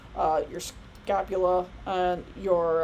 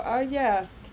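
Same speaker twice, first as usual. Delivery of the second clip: slow, mock-solemn lecturer voice; a hammed-up strict teacher; mock strict professor; 4 semitones higher, slower than usual. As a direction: play the stuffy old professor. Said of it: "I'm not gonna sit there and go".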